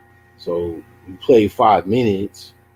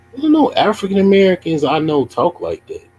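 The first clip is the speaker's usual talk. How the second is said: high and louder incredulous outburst; loud disbelief; 10 semitones higher, 6 dB louder than usual. Real, not acted. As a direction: blurt it out in disbelief. Incredulous reply to chatter's wording.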